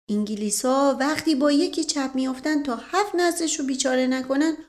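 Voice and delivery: put-on folksy servant in Isfahani accent. Mash Qasem voiced with dialect. (لهجهٔ اصفهانی)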